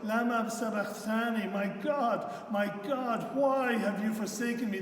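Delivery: loud, high cry of abandonment; anguished cry. Acted. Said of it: "cries out in the final anguish".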